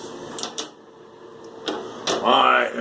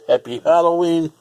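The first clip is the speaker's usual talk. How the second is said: higher, louder cheer; cheerful greeting; 5 semitones higher, 4 dB louder than usual. Shown as a demonstration. Vlogger greeting viewers for Halloween, upbeat and loud. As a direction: call it out festively.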